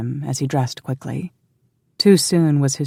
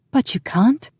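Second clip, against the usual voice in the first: high, indignant woman's voice; exploding protest; 10 semitones higher than usual. A narrator's reading. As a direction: burst out in protest. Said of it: "she exploded".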